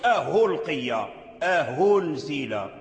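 ألقي and أنزل started with a clear h; slow أنزل as ahunzil, hamza made h; wrong h sound. Shown as a demonstration. Teacher shows students the faulty h reading. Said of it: "هذا لحن".

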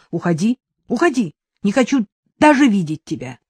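loud, defiant mother throwing him out; angry shouting. Acted. Mother shouting at him to leave, angry and loud. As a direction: drive him away in fury. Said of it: "её крики пошли на убыль".

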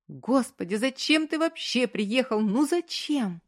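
mild sobbing despair; tearful pleading. A narrator's reading. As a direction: cry it out at him. Woman crying at her lover.

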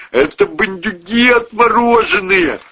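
high, loud imitation of a scared cop; hammed-up panicked cop cry; mock panicked cop. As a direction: ape the frightened policeman. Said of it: "кричит".

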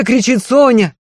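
plain reading voice

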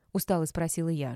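ordinary delivery

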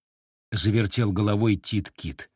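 ordinary delivery

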